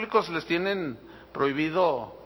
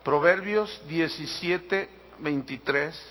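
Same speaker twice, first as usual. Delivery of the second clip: slow, spaced-out "Proverbios diecisiete veintitrés"; slow repeated reference; 3 semitones lower, much slower than usual. Real, not acted. Pastor giving "Proverbios diecisiete veintitrés" slowly so listeners can find it. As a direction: draw out "Proverbios diecisiete veintitrés", pausing between its parts.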